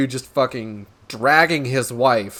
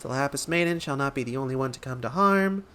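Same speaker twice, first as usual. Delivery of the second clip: softer, light-voiced recitation; assistant reciting; 4 dB quieter than usual. Nashu repeating the inspector's words back, light and soft. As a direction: repeat it lightly, like taking down a note.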